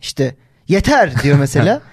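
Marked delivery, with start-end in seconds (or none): 0.7-1.2 lightly acted outburst; mock scolding. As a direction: imitate someone telling another off. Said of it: "biri birine çıkıştığında". (hafiften çıkışma taklidi)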